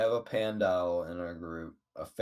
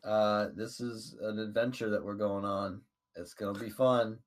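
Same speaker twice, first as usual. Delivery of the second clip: lightly raised, upbeat call; mild yell; 5 dB louder than usual. Acted. Adventurer invites the animals along on an adventure, mild yell. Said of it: "I yell out".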